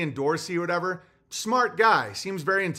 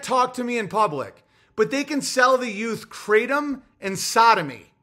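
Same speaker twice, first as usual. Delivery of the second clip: real annoyance; 3 semitones higher than usual. Real, not acted. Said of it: "I'm just getting fucking annoyed".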